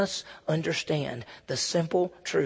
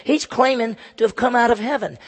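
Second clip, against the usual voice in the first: higher-pitched incredulous objection; grumbling; 5 semitones higher than usual. Acted. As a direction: voice the crowd's indignant disbelief. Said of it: "begin to grumble because they said".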